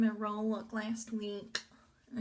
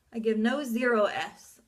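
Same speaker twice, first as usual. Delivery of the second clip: louder; 7 dB louder than usual. Real, not acted. Repeated louder.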